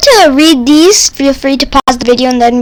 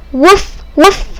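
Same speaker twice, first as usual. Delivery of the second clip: puppy bark, pitched up; higher playful woof; 5 semitones higher than usual. Pretend. Reading the dog book aloud, a higher playful bark.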